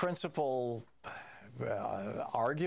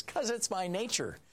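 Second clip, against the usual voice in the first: scorpion; 10 semitones higher than usual. Retold or imitated. Scorpion answers in fable.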